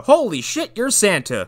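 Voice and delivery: hammed-up disbelief; a passerby realizes it's really Santa; mock shock. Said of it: "they're like".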